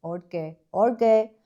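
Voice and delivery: lightly put-on Indian accent; mock Indian accent. Co-host starting to address the public, tentative mock Indian accent. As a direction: ease into an imitation Indian accent, hesitantly. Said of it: "are you doing an accent now".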